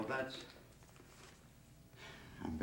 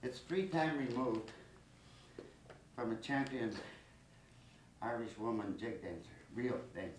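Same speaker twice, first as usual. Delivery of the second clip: winded after dancing, catching breath; panting between words; 4 dB quieter than usual. Real, not acted. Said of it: "I'm out of breath".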